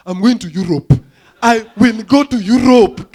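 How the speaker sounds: rising to a loud shout; goalkeeper's inner voice. Retold or imitated. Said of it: "he's thinking".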